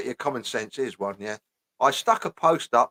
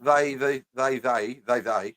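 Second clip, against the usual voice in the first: halting, stuck on "they"; mock stutter; slower than usual. Reading out a woman's post, stumbling mock stutter on "they". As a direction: repeat "they" as if stuck on the word. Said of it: "she's fucking got a stutter now".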